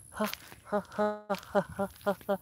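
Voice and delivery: mimicked barking huffs. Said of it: "It barks like".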